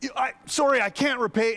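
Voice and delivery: a touch of high begging; lightly voiced pleading debtor. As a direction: beg a little, echoing the first servant. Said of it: "he starts doing the same thing".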